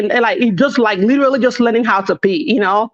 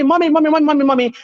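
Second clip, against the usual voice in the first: slightly higher, lightly imitated kids calling mom; pestering children; 5 semitones higher, faster than usual. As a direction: mimic children repeatedly nagging for attention. Imitating children pestering their mother.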